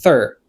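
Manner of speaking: "Thir" alone, voiceless TH then an ER vowel; first-syllable demo. Shown as a demonstration. Teacher repeating the syllable, "Thir" said clearly alone. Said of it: "lè sa mwen di".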